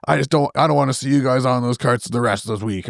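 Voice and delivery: mock exasperated park manager; laughing imitation. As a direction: mimic the fed-up owner through laughter. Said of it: "He's like".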